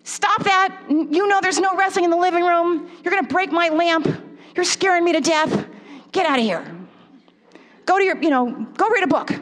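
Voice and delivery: acted exasperated mom; mock yelling. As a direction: tell the kids off in a mild mock yell. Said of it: "Instead of me just yelling".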